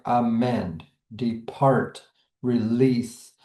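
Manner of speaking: "amend, depart, release", each stressed on its last syllable; stress on second syllable. Shown as a demonstration. Teacher giving examples of iambs, stress on second syllable. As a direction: lean on the second half: a-MEND, de-PART, re-LEASE. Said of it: "stress is on the second syllable".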